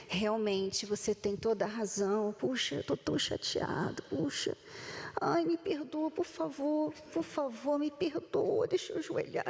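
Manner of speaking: a light parody of someone begging forgiveness, fading to a breathy murmur; mock pleading apology. Mock apology in an imagined quarrel.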